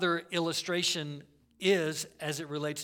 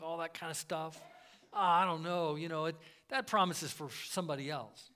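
mock self-doubt; 4 dB quieter than usual. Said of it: "temptation to think".

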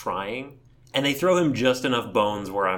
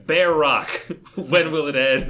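mock showman Grunkle Stan; 4 semitones higher, 6 dB louder than usual. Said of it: "where he's like".

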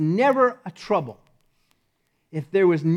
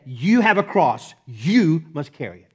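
firm command leaning hard on "You"; imperative; 4 dB louder than usual. Retold or imitated. Jesus telling every disciple to carry it, commanding. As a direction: give it as a direct order. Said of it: "It was an imperative".

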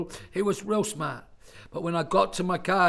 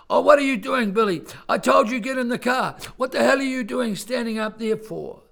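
raised, higher scolding voice, short of a full yell; retold angry yell; 6 semitones higher, 5 dB louder than usual. Dad to Billy at the top of the drive, retold yell. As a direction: re-enact telling off a child loudly. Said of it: "I yelled at him, like, real loud".

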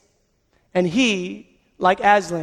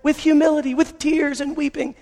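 excited good news; 5 semitones higher than usual. Retold or imitated. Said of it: "He finds".

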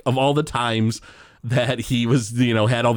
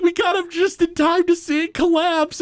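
high mock-heroic kid voice; Bart. Bart covers for himself to Homer, high mock-heroic voice. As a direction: play it like a breathless little hero. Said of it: "he's like".

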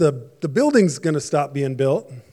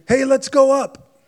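slow, higher and louder, puffed-up boast; conceited; 9 semitones higher, 5 dB louder than usual. Retold or imitated. People of Babel boasting about their tower, slow and puffed up. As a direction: swagger it, full of yourself. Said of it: "started with this big conceited".

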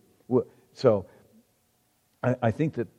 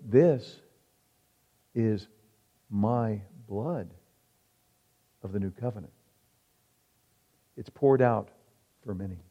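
solemn; 3 semitones lower, 4 dB quieter than usual. Acted. Quoting Jesus at the supper.

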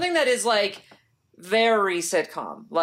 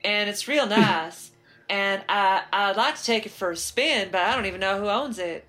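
bad Southern accent; 2 semitones higher than usual. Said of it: "that's not a Florida accent".

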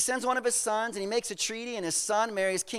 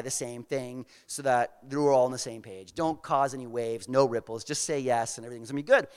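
put-on errand boy; 6 semitones lower, 5 dB quieter than usual. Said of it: "the guy shows up to Micaiah".

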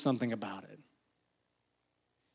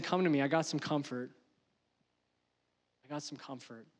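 soft, low reassurance, fading almost to nothing; tender comforting; 3 semitones lower, 8 dB quieter than usual. Acted. The Father offering comfort, soft and tender. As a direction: gently draw a hurt child in.

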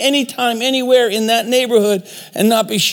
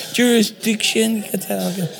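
mock gang voice; 4 dB quieter than usual. Speaker owning his bad gang voice, quietly mock tough. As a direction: throw it away like a homie, lightly. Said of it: "That's my gang thing".

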